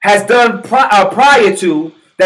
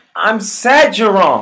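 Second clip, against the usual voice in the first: put-on pity, mock sympathetic tone. Describing how a woman looked at Serena, mock sympathy. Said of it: "looking at her like".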